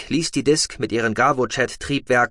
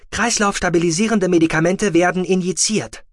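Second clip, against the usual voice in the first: a higher, mechanical machine voice; rasping med box; 8 semitones higher, 4 dB louder than usual. A narrator's reading. The medical box reporting vital signs in a mechanical rasp. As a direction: sound like a rattling medical device reading out.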